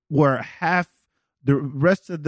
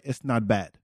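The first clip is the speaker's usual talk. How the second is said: imitated grudging praise, lower and softer; passive-aggressive understatement; 4 semitones lower, 6 dB quieter than usual. A French person saying something is good, passive-aggressively understated. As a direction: drop the voice to play down the praise. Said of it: "kind of a passive aggressive way".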